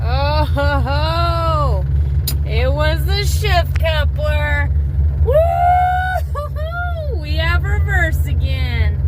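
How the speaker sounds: loud, high triumphant whooping; thrilled. Real, not acted. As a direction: celebrate loudly, real joy. The repair worked.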